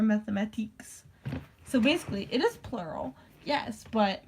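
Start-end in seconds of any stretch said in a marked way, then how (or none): 0.0-1.0 mathematiques ending in a long "teeks"; playful mispronunciation. Acted. Arguing math is short for it, playful "mathematiques".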